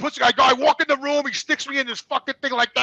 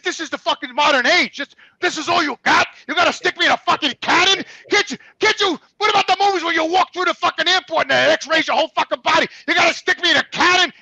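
high-pitched, incredulous protest; exasperated rant; 6 semitones higher, 3 dB louder than usual. Retold or imitated. Patient objecting to the MRI tube, exasperated rant. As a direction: rant in mounting disbelief at the technician.

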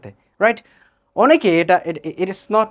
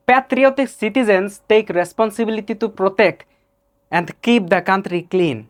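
put-on Arabic accent; 2 semitones higher, much slower than usual. Teacher mimics an Arab employer reading, Arabic accent. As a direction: read it like an Arab speaker of English. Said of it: "আমার যদি কোনো Arabian বন্ধু".

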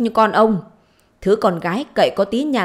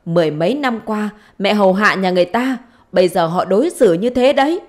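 higher, raised-voice acted grievance; indignant complaint; 3 semitones higher, 4 dB louder than usual. Mother complaining to her daughter about husband's children, indignant. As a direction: pour out accusations with rising pitch.

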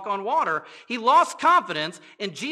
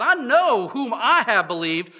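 louder, defiant declaration; with attitude; 3 semitones higher, 7 dB louder than usual. Shown as a demonstration. Quoting Paul to the congregation, with defiant attitude. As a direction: say it like you mean it, chin up. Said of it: "with the attitude and all".

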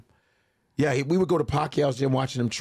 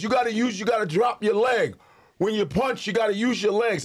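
higher, insistent instruction; coaching trainer; 9 semitones higher than usual. Retold or imitated. Trainer instructing comedian, higher insistent voice. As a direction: press the rookie to use his legs. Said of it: "he goes".

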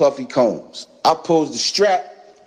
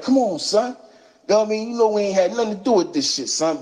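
retold plea, pitched much higher; pleading man; 8 semitones higher, faster than usual. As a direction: imitate the nervous man begging off. Man pleading innocence to gunman.

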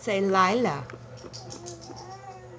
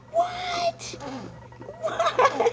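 mock surprise.

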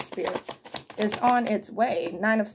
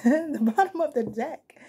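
laughing at own slip, slower; laughing correction; 4 semitones higher than usual. Real, not acted.

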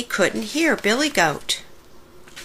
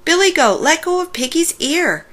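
calling out firmly; 8 semitones higher than usual. Acted. Ducky calls out to stop.

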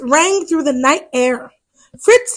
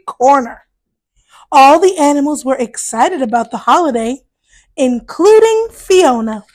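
put-on reading to children. A narrator's reading. To children, reading a Halloween picture book, lively storyteller voice. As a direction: tell it brightly to little ones.

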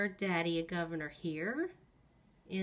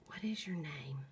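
talking to a ghost; 4 semitones lower, 5 dB quieter than usual. Real, not acted. Whispering to a ghost.

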